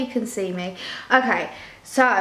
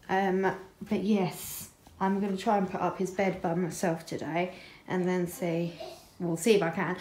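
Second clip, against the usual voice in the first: quiet; 8 dB quieter than usual. Real, not acted. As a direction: say it softly, at a distance. Speaking quietly, far from mic.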